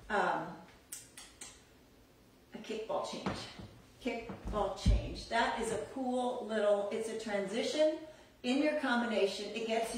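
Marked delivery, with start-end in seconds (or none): 2.5-3.4 whispered step name, kickball change; named softly. Shown as a demonstration. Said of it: "another good accent is". 4.0-5.3 Kickball change, spelled out slowly and clearly; slow repeat. Shown as a demonstration. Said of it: "another good accent is".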